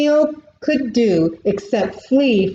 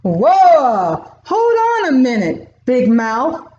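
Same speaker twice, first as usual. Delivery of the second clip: louder, quick whoa to break up a fight; buffalo stepping in; 3 semitones higher, 4 dB louder than usual. Acted. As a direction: jump between them and halt the quarrel. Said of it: "the buffalo said to Leo".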